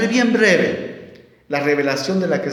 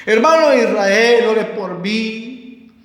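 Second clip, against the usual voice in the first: pleading church member; 4 semitones higher, much slower than usual. Retold or imitated. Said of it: "ya se está asustando".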